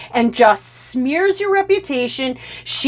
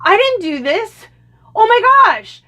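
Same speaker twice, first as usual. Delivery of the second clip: mock panic; 9 semitones higher, 4 dB louder than usual. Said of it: "you're going".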